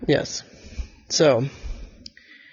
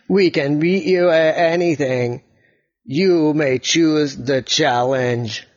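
robot voice; slower than usual. Acted. Yellow robot boasts.

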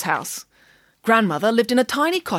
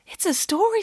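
put-on girl voice; 11 semitones higher than usual.

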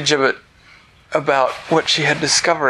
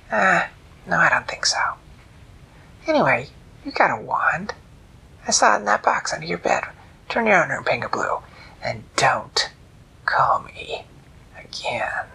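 higher whispered trickster; sly jackal; 6 semitones higher than usual. Acted. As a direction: dismiss her and vanish. Jackal refuses.

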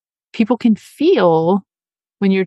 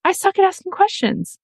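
imitating a doubtful listener; 5 semitones higher than usual. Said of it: "and you're thinking".

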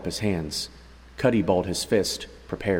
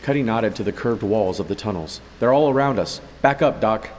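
urgent warning; 2 semitones higher than usual. Acted. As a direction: call it out as danger closes. Rats swarming, urgent warning.

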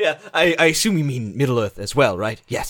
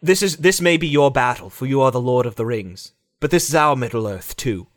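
lightly voiced solemn elf; a touch of grave fantasy hero; Legolas; 3 semitones lower than usual. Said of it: "Legolas goes up to".

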